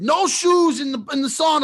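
lightly voiced old Italian man laying down the rule; a hint of a stern old man in the sauna; mock old Italian guy. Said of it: "like in Italian".

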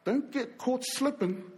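slow, measured calm; imitated calm, unhurried instruction; calm preacher. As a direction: deliver it slowly, as an unruffled teacher to followers. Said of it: "preacher's calm".

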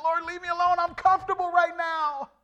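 high pitched mock whine, leave me alone; high whiny protest. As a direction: act out a childish refusal, laughing at the close. Pleading with God, retold.

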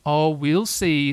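slow, noncommittal motherly answer; drawn-out parental stalling; Kanga. Acted. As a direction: stretch it out to put the child off. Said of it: "said Kanga".

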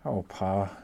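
understated tremble; a touch of unease, held small; trembling voice. Acted. Laura confiding in Pa, slight tremble. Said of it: "There was a tremble in her voice".

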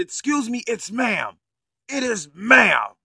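a hint of a prissy correction, drawn out at the end; mocking the trans person. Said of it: "do he even sound like".

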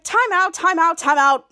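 loud, repeated time-out call; urgent call. Retold or imitated. Henry stopping the game, loud urgent call.

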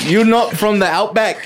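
amused put-on Aussie accent; bad Australian accent. Challenging the rival fake Aussie, mock Australian accent. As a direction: play an accusing Australian. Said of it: "You sound like an alien".

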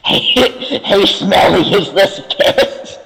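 half-laughing, half-whispered jab; in-character jab. Acted. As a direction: tease the barkeep through laughter. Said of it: "the worst thing I've ever said in character".

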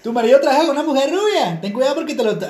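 lightly voiced ad read; imitating a TV ad. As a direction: rattle it off like a commercial warning. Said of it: "cómo era el anuncio".

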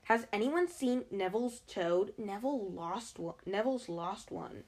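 put-on lightly bossy girl's voice; a touch of bossiness, crisply asking. Girl asks compartment about Neville's toad, mildly bossy. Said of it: "She had a bossy sort of voice".

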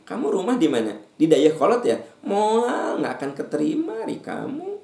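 high prying busybody voice; nosy busybody. Acted. Preacher mocking a nosy neighbour, high prying voice. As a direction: squeal it like a gossipy neighbour.

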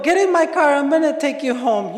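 lightly acted bossy order; mock kidnapper's order. Telling a friend to get in the car, mock kidnapper's order.

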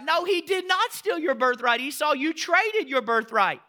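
loud, high, slow scolding; preacher scolding Esau at full force; stern rebuke. Real, not acted. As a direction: call out the liar.

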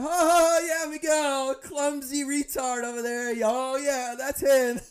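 high teasing mock voice; mocking family. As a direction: rib him like the in-laws do. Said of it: "They're like".

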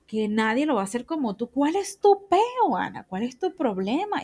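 high, drawn-out scolding of herself; self-scolding. Real, not acted. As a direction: nag yourself in exasperation.

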